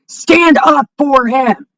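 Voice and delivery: shouted, very slow, word by word. Real, not acted. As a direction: yell the demand slowly. Repeats the demand, second shouted.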